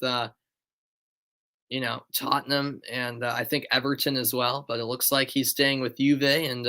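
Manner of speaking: brisk, lifted match call; play-by-play. Acted. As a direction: call the free kick live.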